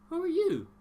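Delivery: high, loud who are you; mock teacher barking at a stranger; sharp teacher call-out. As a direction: snap the question across the room like a teacher. Teacher calls on him in roll.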